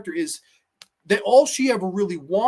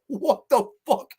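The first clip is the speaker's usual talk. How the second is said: slow, higher, incredulous; baffled guy; 6 semitones higher than usual. Retold or imitated. Rev confused by Angela's tape, slow and incredulous. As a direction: drag it out in disbelief, pitched up. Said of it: "he's like".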